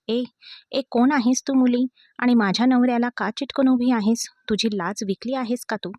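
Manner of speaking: loud, high, furious scolding; angry village scolding. Acted. Village wife scolding a clingy stranger, loud and furious. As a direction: tell off the girl hugging your husband. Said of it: "गावाकडच्या थाटात रागावली".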